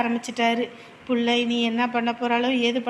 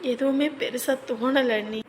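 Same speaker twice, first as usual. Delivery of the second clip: quietly tearful confession; restrained, weary sadness on the verge of crying; 3 dB quieter than usual. Acted. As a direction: speak softly, close to tears. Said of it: "எதுக்கு அழுதுகிட்டு இருக்க".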